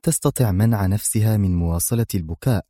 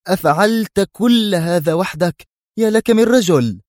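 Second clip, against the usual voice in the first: higher, slow, awed cry of admiration; amazed exclamation; 10 semitones higher, 4 dB louder than usual. A narrator's reading. Lieutenant praising his friend's lone feat, amazed. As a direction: gasp it out in sheer wonder. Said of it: "فهتف الملازم براون في انبهار".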